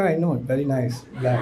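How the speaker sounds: very slow, quiet and laughing; drawn out with a chuckle, innocent; laughing clueless reply. Retold or imitated. Naive student praising the robber's jacket, laughing slowly. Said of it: "میں نے کہا".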